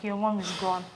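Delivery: low, hushed retelling of a whisper; retold whisper. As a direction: drop it soft and low, almost into an ear. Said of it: "he whispered into my ears".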